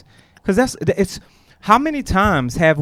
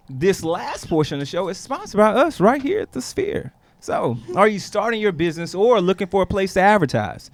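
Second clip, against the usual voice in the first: ad read; 3 semitones higher than usual. Acted. Host reads sponsor message.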